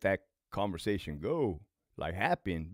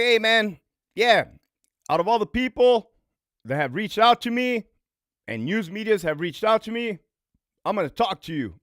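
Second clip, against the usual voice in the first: higher, louder put-on voice of the inmate; louder, higher voice for the inmate who agreed to talk; imitating the inmate; 10 semitones higher, 9 dB louder than usual. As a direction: play the inmate calling back, pitched up and loud. Inmate's words quoted on the phone.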